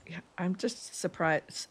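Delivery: flat, slow robot voice. Pretend. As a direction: say it like a robot, no feeling. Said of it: "She says like a robot".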